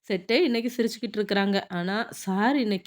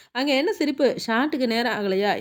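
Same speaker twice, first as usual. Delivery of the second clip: stern call-out; 3 semitones higher than usual. Acted. Director scolding an actress for laughing before the shot, stern call-out. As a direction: call out a sharp reprimand.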